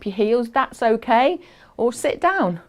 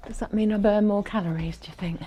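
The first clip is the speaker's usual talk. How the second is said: whispered aside; 5 dB quieter, faster than usual. Real, not acted. Joking aside while exercising.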